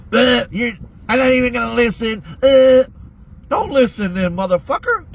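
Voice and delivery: rising to an angry yell; heated rant. Real, not acted. Ranting at excuses, calling out.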